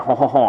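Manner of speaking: hammed-up Gallic laugh; French laugh. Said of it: "can anyone here do a French laugh?".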